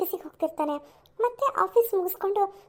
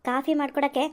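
lower, mocking disbelief at the request; scornful scoff; 7 semitones lower than usual. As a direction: sneer back at him. Nivedita scoffs at coffee request. (ಲೋಟ coffee ಕೇಳಿದ್ದಕ್ಕೆ ತಿರಸ್ಕಾರದ ಕುಹಕ)

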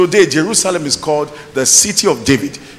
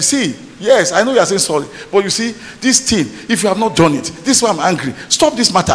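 mildly annoyed, raised pitch at phrase starts; mock exasperated husband; replayed irritation; 3 semitones higher than usual. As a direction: act out building irritation in an argument. Replays his angry quarrel with wife.

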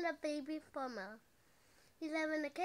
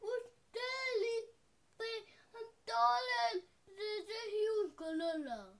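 high poacher voice; 7 semitones higher than usual. Acted. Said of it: "The poachers say".

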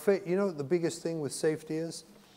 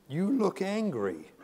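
gentle blunt verdict; 6 semitones higher than usual. Retold or imitated. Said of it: "Do you mind if I tell you what you look like".

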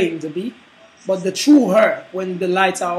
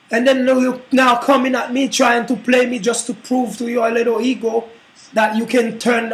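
angry woman; 2 semitones higher than usual. Acted. Woman keeps cursing the man.

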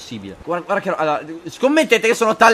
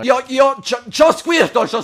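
high, loud, slowed mock battle cry; boastful shouting; 7 semitones higher, 5 dB louder, slower than usual. Player bragging he has Squirtle, boastful shout. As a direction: crow it loudly, stretched out.

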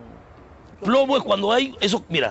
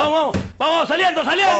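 departure call; 4 semitones higher than usual. Acted. Driver calls out the departure.

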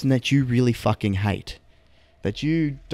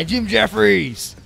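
drawn-out, high cheer; high-pitched, hammed-up hurrah; mock cheer; 9 semitones higher, much slower than usual. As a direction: stretch the name out like a hype man.

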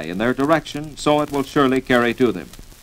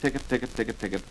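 duck call honks; 3 semitones lower, 11 dB quieter, much faster than usual. Shown as a demonstration. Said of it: "softly and very rapidly like this".

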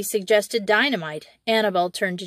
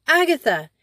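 put-on a high, louder call to a child in the vault; 7 semitones higher, 5 dB louder than usual. A narrator's reading. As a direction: call her name through the steel door. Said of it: "he called as loudly as he could".

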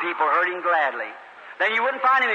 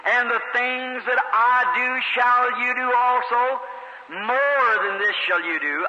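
slow, drawn-out scripture reading; preacher quoting Jesus, slow and solemn; solemn scripture quote; slower than usual. Acted. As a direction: intone each word like holy writ.

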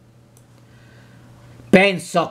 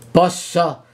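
softened voice; 3 semitones higher than usual. Acted. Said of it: "con voce raddolcita".

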